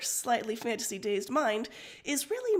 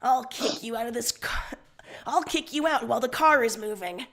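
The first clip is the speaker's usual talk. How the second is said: mock threat, a bit louder; threatening; 5 dB louder than usual. Friend threatening Solix in the car, mock threat. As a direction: threaten to kick him out of the car. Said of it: "you threaten".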